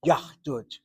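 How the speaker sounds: "yahdut" as two syllables, yah-dut; original pronunciation. Shown as a demonstration. Teacher repeating the original form for students, "yahdut" with no middle vowel. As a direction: close "yahdut" on an audible h before the d. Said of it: "was originally yahdut".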